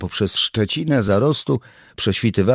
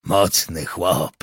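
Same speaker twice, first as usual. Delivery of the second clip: slow, drawn-out mock admiration; slowly savoured, teasing praise; half-joking admiration; slower than usual. A narrator's reading. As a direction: size him up, impressed in jest. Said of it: "popatrzył na tamtego z półżartobliwym podziwem".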